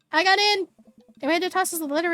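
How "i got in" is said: excited. Acted. Daughter repeats the news.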